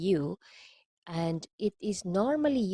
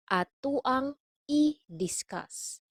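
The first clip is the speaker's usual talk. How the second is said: higher, slow syllable groups with pauses; slow model; 6 semitones higher than usual. Shown as a demonstration. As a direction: break "i-discuss" into careful parts. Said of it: "let's take this slowly".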